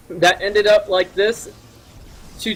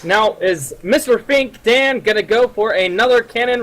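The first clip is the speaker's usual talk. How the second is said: put-on old-timey radio announcer, pitched up; 1930s announcer voice; 6 semitones higher than usual. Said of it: "nineteen thirties announcer voice".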